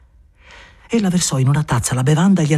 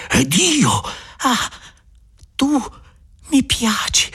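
high Maria; 10 semitones higher, slower than usual. Acted.

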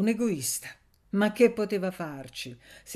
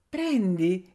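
shouted; 5 dB louder than usual. Acted. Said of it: "egli gridò".

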